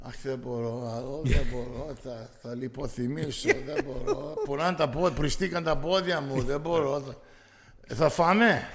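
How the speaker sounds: lightly voiced moaning thea; hammed-up whining about sore feet; complaining Greek aunt. Comic impersonating his aunt outside the banquet hall, whiny. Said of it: "when I'm doing that character, it, I'm sounding like her".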